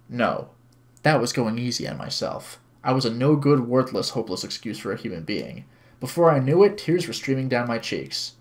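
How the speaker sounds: even, measured narrating voice; story narration. A narrator's reading. Streamer reads visual novel to viewers, story narration. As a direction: read the story aloud clearly.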